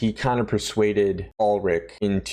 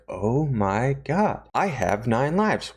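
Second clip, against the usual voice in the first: slow dawning awe; 3 semitones higher, slower than usual. Retold or imitated. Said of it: "it all sets into Joe".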